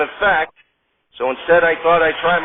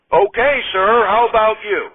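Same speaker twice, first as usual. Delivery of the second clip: host Hartman asking; 5 semitones higher than usual. Acted. Hartman asks McDonald.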